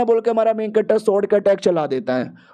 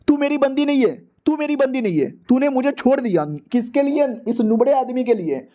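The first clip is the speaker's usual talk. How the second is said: higher, indignant outburst at being dumped; flaring up; 4 semitones higher than usual. Acted. Jilted boyfriend flares up at the girl, high indignant outburst. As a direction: burst out in jealous outrage. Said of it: "वो भड़क जाता है".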